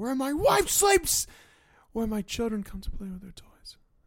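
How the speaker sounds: dropped almost to nothing. Retelling a movie line after the scream, imitating Michael Corleone going suddenly quiet. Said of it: "real quiet all of a sudden".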